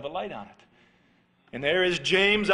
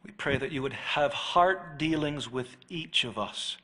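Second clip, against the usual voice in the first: closing prayer; 3 semitones lower than usual. Real, not acted. Pastor praying for the congregation after the sermon, reverent. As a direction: pray over the congregation reverently.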